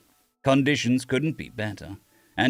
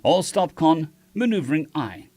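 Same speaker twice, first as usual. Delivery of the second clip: command callout; 4 semitones higher than usual. Acted. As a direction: bark the order to the helm. Captain orders all stop.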